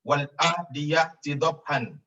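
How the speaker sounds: steady brisk recitation; model tempo. Shown as a demonstration. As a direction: say it at the teacher's pace. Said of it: "as fast as I am doing".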